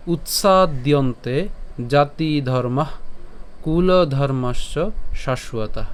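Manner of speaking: slow, measured Sanskrit recitation; verse recitation. Shown as a demonstration. Teacher introduces today's shloka to learners, slow recitation. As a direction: recite it slowly, phrase by phrase with pauses. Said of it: "আজকের শ্লোকটি হলো".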